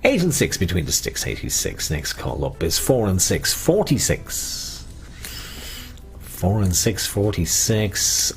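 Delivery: sing-song number calling; bingo caller. Acted. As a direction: call the numbers like a bingo host. Bingo calls on radio.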